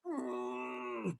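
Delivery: high, very soft held "mm"; stifled laugh hum. Retold or imitated. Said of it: "trying not to laugh".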